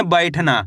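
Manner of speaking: 'बैठना' को अक्षर जोड़कर एक शब्द में बोलें; 'बैठना' में खुला 'ऐ', अंत में सुर गिराएँ; मिलाकर पढ़ना. Shown as a demonstration. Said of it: "कैसे पढ़ेंगे?". ('बैठना' साफ़, जुड़ा हुआ उच्चारण)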